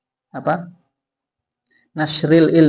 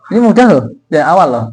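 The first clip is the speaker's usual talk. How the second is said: encouraging; 6 dB louder, faster than usual. Real, not acted. Encouraging student to read.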